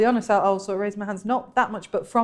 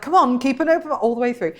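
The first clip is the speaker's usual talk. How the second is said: a light nudge to herself, slightly higher; mild self pep talk; 5 semitones higher than usual. Retold or imitated. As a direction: coax yourself, half joking. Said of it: "And so I was kind of like".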